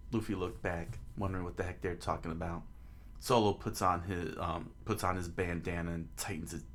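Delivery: measured narrator reading aloud; understated storyteller; story narration. A narrator's reading. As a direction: narrate the scene evenly.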